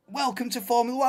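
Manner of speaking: lightly voiced smug commenter, fast; a hint of a know-it-all stranger; smug commenter quote. Quoting a commenter to his viewers, lightly smug.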